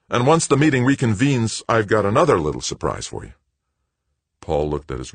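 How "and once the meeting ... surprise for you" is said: high, loud, pleased announcement; beaming. A narrator's reading. Greg promising Paul another surprise, beaming. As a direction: tease good news with a big smile.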